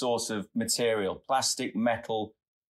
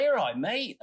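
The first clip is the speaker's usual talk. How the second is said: mock tradie voice, pitched much higher; imitating a tradie; 12 semitones higher than usual. Tradie tapping on the car window, asking if he's ok, in a high mock voice. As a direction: put on a high bloke voice for the tradie's check-in. Tradie checks on crying driver.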